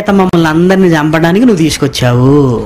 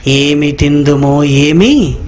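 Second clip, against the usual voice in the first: slow, lower, whiny voice; mock whining crowd; 4 semitones lower, much slower than usual. Preacher mimics the hungry crowd, slow and moaning. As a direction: moan it slowly as if starving.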